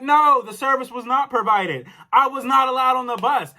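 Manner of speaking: indignant protest. Retold or imitated. Caller disputing the bank's claim, indignant. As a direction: argue back, insisting on each point. Retold argument with the bank.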